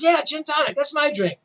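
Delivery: mock English rocker, cheerful; a musician's English accent. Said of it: "very bad imitation of his accent".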